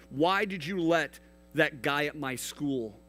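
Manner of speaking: anguished questioning. Acted. People ask God why He allowed suffering, pleading.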